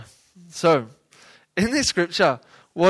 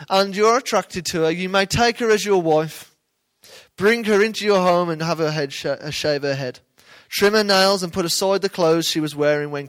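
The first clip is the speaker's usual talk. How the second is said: scripture reading. Acted. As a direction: read the verse out like a proclamation. Reads scripture passage aloud.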